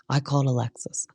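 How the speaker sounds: fading whispered repeat, like a dramatic TV echo. Retold or imitated. Recapper mimicking the show's edit repeating Heather's line as an echo. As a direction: breathe "I called Alexis" as a ghostly echo. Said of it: "put that three times".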